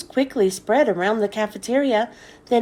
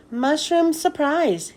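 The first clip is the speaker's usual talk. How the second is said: squeaked; 5 semitones higher, slower than usual. Acted. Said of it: "he squeaked".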